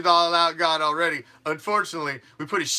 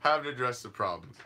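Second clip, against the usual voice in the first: mocking quiet; 5 semitones lower, 6 dB quieter than usual. Mocking refrain, two takes.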